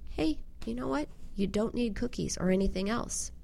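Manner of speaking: soft, gentle self-comfort; quiet, kind inner voice; reassuring self-talk. Retold or imitated. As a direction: softly reassure yourself. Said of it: "reassure yourself".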